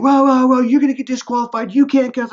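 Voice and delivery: alarmed warning. Retold or imitated. Official warning him loudly.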